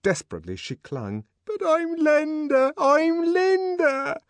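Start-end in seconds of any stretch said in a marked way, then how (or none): 1.5-4.2 high, crying, insistent; cling to him with the voice; desperate cry. Acted. Linda desperately insisting over the laughter.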